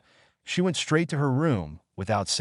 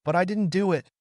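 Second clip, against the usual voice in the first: snapped; 9 semitones higher than usual. A narrator's reading. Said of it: "I snapped".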